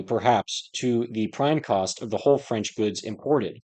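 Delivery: projected, even-paced book reading; formal read-aloud delivery. Acted. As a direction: read a dense old text aloud, stressing key words.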